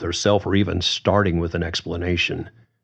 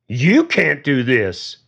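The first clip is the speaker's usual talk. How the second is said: put-on drunk shout; 7 semitones higher, 4 dB louder, slower than usual. A narrator's reading. Drunk James yells at Susan.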